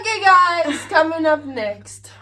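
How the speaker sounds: presenter voice. Real, not acted. Announcing next video segment.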